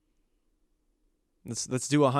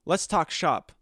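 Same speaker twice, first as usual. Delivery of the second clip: slow, savoring let's talk shop; mock business pitch; 4 semitones higher, slower than usual. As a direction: pitch it to a fellow influencer, slowly. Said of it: "go to some other influencer and be like".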